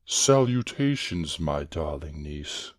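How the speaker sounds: hammed-up villainous uncle; villain trying another greeting. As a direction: make a grand show of greeting. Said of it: "Let me try it like this".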